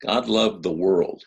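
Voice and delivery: "loved" hit firmly; stress on loved. Shown as a demonstration. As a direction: press "loved" home for the congregation. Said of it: "I tried to emphasize the words there".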